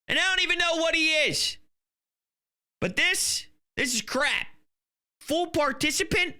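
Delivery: fired-up sports-host rant; getting mad. Real, not acted. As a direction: vent your outrage at the player. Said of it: "'cause I'm getting all mad".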